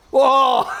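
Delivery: loud high whoa; startled yelp. Retold or imitated. Daring a finger in the spider hole, loud high yelp. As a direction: jump back with a shout. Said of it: "to go".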